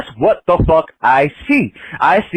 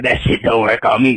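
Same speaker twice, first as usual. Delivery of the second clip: lightly lowered possessed-woman voice; low, eerie imitation of her; creepy voice; 5 semitones lower than usual. Imitating her answer to his prayer, low creepy voice. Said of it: "In that voice".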